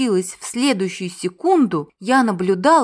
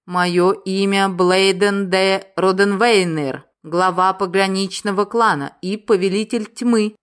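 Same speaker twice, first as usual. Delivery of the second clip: dark lord; 3 dB louder than usual. Acted. Villain introduces himself grandly.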